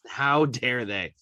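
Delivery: How dare they? drawn out slowly, each word weighted; slow emphatic repeat. Real, not acted. Fan repeating his outrage at the smiling players, slowly.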